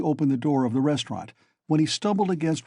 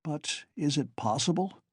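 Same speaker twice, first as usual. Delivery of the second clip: faintly; 3 semitones higher, 5 dB quieter than usual. Acted. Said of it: "he brought out faintly".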